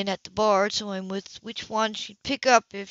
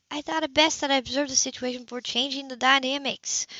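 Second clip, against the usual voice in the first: higher, careful, proper phrasing; prim sister voice; 6 semitones higher than usual. Acted. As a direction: say it like a proper doctor. Sybil's prim original phrasing.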